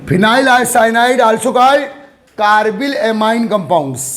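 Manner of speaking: slow dictation. Real, not acted. Teacher dictates notes to class.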